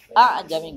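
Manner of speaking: "a'jami" with two hard, short glottal attacks; wrong hard hamza. Shown as a demonstration. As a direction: hit both hamzas in "a'jami" briefly. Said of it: "nggak boleh".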